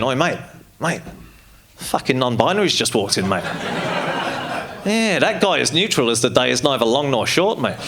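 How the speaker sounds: put-on bar bigot in an Australian accent; Australian pub heckler. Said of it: "I just feel like the Australian accent".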